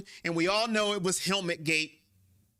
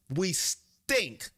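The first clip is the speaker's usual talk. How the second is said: blunt, curt putdown. Retold or imitated. Fan voices the player bluntly, then admits it was less polite. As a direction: say it flat-out, no sugarcoating. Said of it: "he didn't say it like that".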